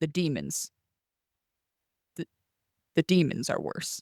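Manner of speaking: put-on dry, matter-of-fact, dead-straight deadpan delivery. Retelling a film scene where Lorraine answers a lady: imitating a deadpan reply. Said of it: "Lorraine looks at her deadpanned and is like".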